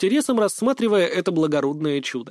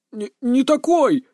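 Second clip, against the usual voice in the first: nervous blurt; 9 semitones higher, 5 dB louder, slower than usual. A narrator's reading. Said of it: "выпалил он, нервно оглядываясь".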